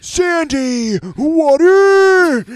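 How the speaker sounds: high squeaky cartoon voice; SpongeBob impression. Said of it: "Shout out D Nathan".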